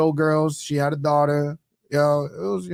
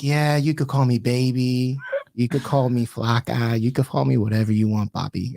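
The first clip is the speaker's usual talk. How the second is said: seductive voicemail; 4 semitones lower than usual. Retold or imitated. Retold flirty voicemail from Cindy.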